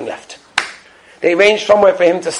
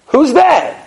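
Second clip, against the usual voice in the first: high called-out Who's there again, disbelieving; repeated shout; 8 semitones higher than usual. Retold or imitated. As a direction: call it out once more, unsure. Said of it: "They shout".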